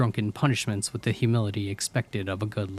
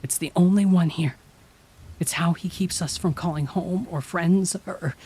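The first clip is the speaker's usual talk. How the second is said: Cheryl trailing off; 9 semitones higher, 4 dB louder than usual. A narrator's reading. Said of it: "she trailed off".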